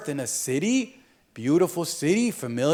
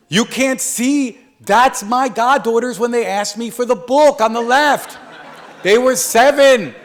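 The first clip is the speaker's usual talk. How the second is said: laughing; 4 semitones higher, 5 dB louder than usual. Real, not acted. Laughing joke with audience.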